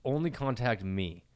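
slow breathy whisper. Pretend. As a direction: slowly whisper it into the mic. Mock whispered reply.

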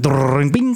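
imitated cartoon ricochet; cartoon crash noise. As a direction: make a cartoon bing sound effect.

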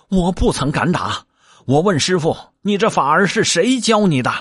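a cheeky monkey demanding an answer; Monkey King voice. Acted. Wukong questions his master.

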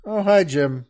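casual, offhand "Oh, hi, Jim."; dead casual greeting; matter-of-fact. Shown as a demonstration. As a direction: toss off "hi, Jim" like nothing. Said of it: "it's just very, uh, matter of fact".

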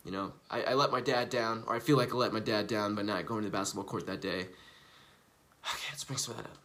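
low, soft self-talk; inward reflection. Shown as a demonstration. Sitting alone calling up a dark memory, quiet self-talk. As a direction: murmur it to yourself, eyes closed. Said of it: "I'm just kinda sitting there and I'm like".

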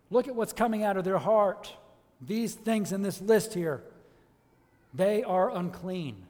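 forceful preaching. Real, not acted. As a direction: drive it home to the congregation.

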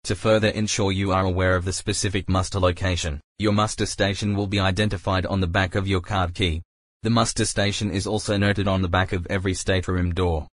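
echoing ferry loudspeaker. Real, not acted. Ship safety announcement playing.

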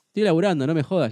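firm, irritated retelling of a comeback; retold annoyed retort. Retelling his retort to a heckler, annoyed.

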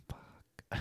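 barely audible, voiceless swearing; exasperated whisper. Pretend. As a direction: curse under the breath. Exasperated at co-host's refusal.

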